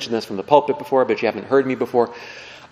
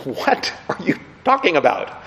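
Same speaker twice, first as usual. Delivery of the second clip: incredulous listener; 2 semitones higher than usual. Acted. Acted bafflement at Lincoln's strange talk.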